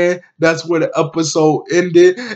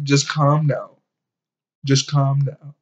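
calming; 5 dB quieter than usual. Retold or imitated. Vlogger voicing a man soothing an upset woman, calming. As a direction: settle them down, softer at the end.

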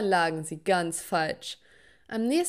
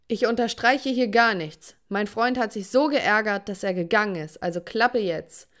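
louder, cross father through the door; father shouting; 4 dB louder than usual. Acted. Dad knocks and yells at his singing daughter, angry shout. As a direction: scold her, fed up. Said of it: "klopfte und schrie".

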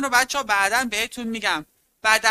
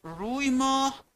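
روی ماه spelled out slowly, a little higher; teacher slowly unpacks the compound روی ماه for students; slow explaining rephrase; 4 semitones higher, slower than usual. Shown as a demonstration.

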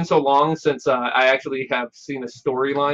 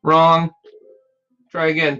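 taunting villain voice; 2 semitones higher, 3 dB louder than usual. Acted. Villain taunts wrong choice.

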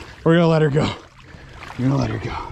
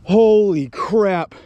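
higher and very slow, savouring; amazed drawl; 7 semitones higher, 3 dB louder, much slower than usual. Real, not acted. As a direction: draw it out in amazement. Still amazed by the fish.

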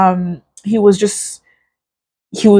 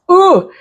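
upset high ooh; 11 semitones higher, 4 dB louder than usual. Real, not acted. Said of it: "I'm just very upset".

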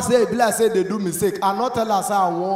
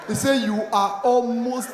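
ordinary delivery

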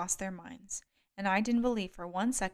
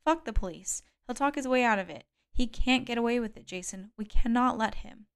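angry; 3 semitones higher, 4 dB louder than usual. Acted. Angry demand for revenge.

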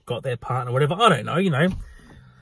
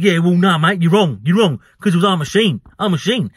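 mock-annoyed man insisting he's right; retold annoyed insistence; imitating annoyance; 2 semitones higher, 4 dB louder than usual. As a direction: act out an irritated, louder contradiction. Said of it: "getting really annoyed at me".

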